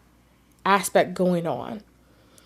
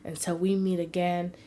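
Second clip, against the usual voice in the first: tender reassurance. Retold or imitated. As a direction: gently reassure a grieving mother. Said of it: "I held her and I said".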